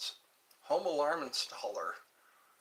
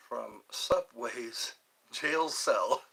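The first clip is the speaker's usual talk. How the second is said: slow odd voice; much slower than usual. Pretend. Joke about Jared in jail.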